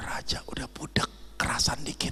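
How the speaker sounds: unvoiced, quiet whisper.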